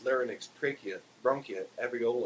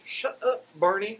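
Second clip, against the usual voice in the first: high, loud snap; angry shout; 12 semitones higher, 8 dB louder, slower than usual. A narrator's reading. Barney silencing Wilma the parrot, loud high snap. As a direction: cut the bird off loudly.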